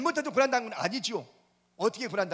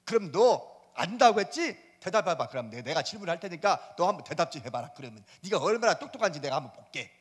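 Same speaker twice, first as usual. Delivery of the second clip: challenging God; 4 semitones lower than usual. Retold or imitated. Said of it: "질문을 막 퍼부어요".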